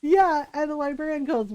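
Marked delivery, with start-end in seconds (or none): 0.0-0.5 put-on sheepish boyfriend. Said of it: "And he goes".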